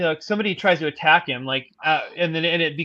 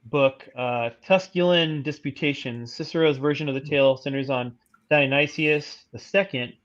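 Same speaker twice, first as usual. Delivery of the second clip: even, measured encyclopedia read; steady informational narration; reading aloud; 2 semitones lower than usual. Real, not acted. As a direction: read the article out formally. Reads an article aloud.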